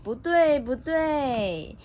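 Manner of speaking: high-pitched singsong correction, falling off; lightly voiced rabbit correcting, starting high; mild scolding. Little rabbit correcting the big bear, mild scolding.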